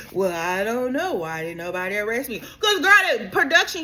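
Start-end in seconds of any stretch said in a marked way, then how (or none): 0.1-2.4 mock Meredith shrug. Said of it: "quoted exchange".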